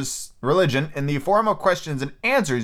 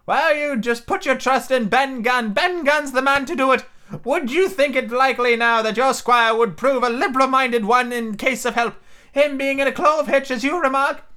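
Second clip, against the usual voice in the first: Ben Gunn voice; 10 semitones higher than usual. A narrator's reading. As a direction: confide like a lonely hermit.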